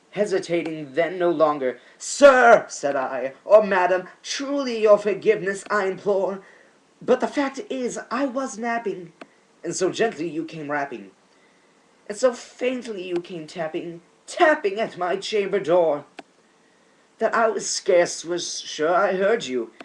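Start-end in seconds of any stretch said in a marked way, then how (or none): 2.0-2.7 loud call. Acted. Narrator calling to a visitor behind the door, loud call. 3.4-19.7 loud call. Acted. Narrator calling to a visitor behind the door, loud call.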